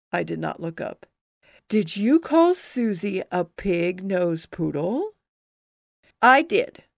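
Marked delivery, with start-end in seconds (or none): 1.7-5.1 stern teacher. Acted. Teacher questions the child. 6.2-6.8 put-on defiant kid. Child defiant to teacher.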